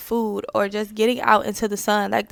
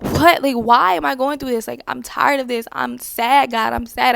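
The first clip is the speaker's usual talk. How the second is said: louder, frustrated plea to God; mock cry of frustration thrown upward; 2 semitones higher, 4 dB louder than usual. Speaker retelling how she cries out to God, frustrated. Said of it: "I would scream out to God".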